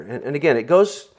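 usual speaking voice

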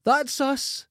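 put-on high, cheery old lady voice; imitating his mum. Son imitates his mum finishing shopping, high and chirpy. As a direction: chirp it like a satisfied elderly mum. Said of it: "And she goes".

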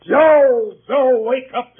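loud, high call; shouting a name. Acted. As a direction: yell to wake him up. Shouting for the sleeping boy.

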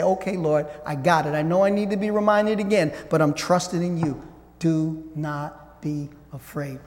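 soft, low, humble prayer. Acted. Believer softly answering God, humble and trusting. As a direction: murmur it like a quiet promise.

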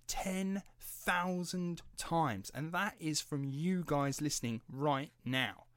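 high, slow, proud announcement; grateful and proud, drawn out; thrilled milestone. Real, not acted. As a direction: savor the number, beaming. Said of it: "thank you very, very much".

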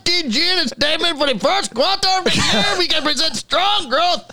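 a hammed-up German executive shouting his quarterly numbers; German accent. Co-host reading the CEO's statement in a shouted German accent. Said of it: "He sounds German".

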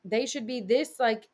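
a hint of a worried husband questioning; husband gently doubting the plan; doubtful husband. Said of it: "my husband was like".

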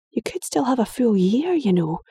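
anxious mum saying goodbye; worried mother. Acted. Mother voiced, higher.

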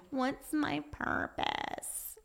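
high, soft, drawn-out mock whine; whiny voice. Speaker mimics someone wondering about purpose, whiny. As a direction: stretch it out in a pouty put-on whine. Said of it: "That's my whiny voice".

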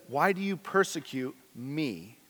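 the real line, hushed and solemn; solemn correct reading. Shown as a demonstration. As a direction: say the true words quietly and gravely. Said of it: "No, it s-, says".

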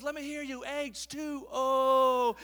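high hype call into a long shouted O; hammed-up stadium rallying shout; motivational speaker. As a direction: lead a crowd chant, stretching the last letter. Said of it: "going all motivational speaker here. He's super excited".

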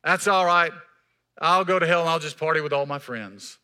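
mock carefree voice of a scoffer; dismissive. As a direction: shrug it off like it's nothing. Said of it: "they'll say".

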